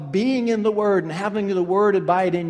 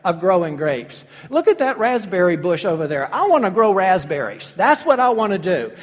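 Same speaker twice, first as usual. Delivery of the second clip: a grapevine branch whining, building to louder; demanding branch; 3 semitones higher, 6 dB louder than usual. Retold or imitated. Branch telling the vine it wants raspberries, building louder. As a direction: start sulky, end demanding, louder. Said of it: "the branch goes back to the vine and says".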